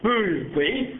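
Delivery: mock-horrified cry, high and drawn out; imitated panic. Villagers recoiling from his face, mock panic. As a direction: cry out slowly like a startled crowd. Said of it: "mọi người hốt hoảng".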